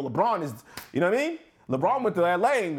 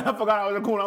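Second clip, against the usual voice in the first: laughing; 3 semitones higher, much faster than usual. Real, not acted. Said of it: "Forgot you're recording".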